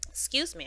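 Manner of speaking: a real cough mid-sentence; cough, then excuse yourself. Real, not acted. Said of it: "I'm sneezing".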